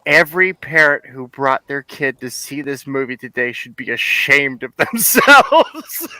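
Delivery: mock public scolding that ends laughing; blurted out. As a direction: blurt it out for everyone to hear. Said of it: "So she just blurts out".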